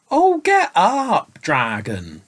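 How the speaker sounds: put-on high, slow pleading child's cry; piteous boy. A narrator's reading. Tired boy begging the sleeping dragon, piteous. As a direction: beg him to get up, close to tears. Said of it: "cried the boy piteously".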